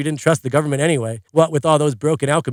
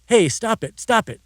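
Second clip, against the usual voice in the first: higher, away from the receiver; off phone; 6 semitones higher, slower than usual. Retold or imitated. Dad fending off mom's smacks, higher and away from the phone. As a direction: protest while being smacked, away from phone. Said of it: "Dad said off phone".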